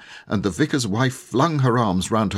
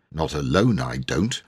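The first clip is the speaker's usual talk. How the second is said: lower, steady no; low firm refusal; 4 semitones lower than usual. Acted. Servant Andrew refusing the maid in low firm tones. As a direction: refuse flatly, keeping it low. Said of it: "in low, firm tones".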